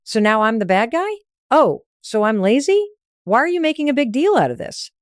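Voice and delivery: mock an offended partner pushing back; indignant retort, lightly acted; defensive anger. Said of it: "is anger or defensiveness".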